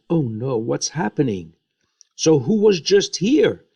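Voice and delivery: a mock alarmed cry rising high and loud; lightly acted fright, pitch jumping up; alarmed, trembling. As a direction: imitate a shaken old father's startled question. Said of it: "Isaac trembled".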